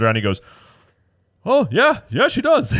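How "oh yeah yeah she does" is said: high, emphatic imitated realization; retold high-pitched astonished agreement; amazed confirmation. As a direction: mimic a friend suddenly spotting it, pitched way up. Friend's startled confirmation acted out.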